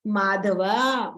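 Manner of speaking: slow, honey-sweet माधवा; very lovingly. Acted. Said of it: "बड़े प्यार से".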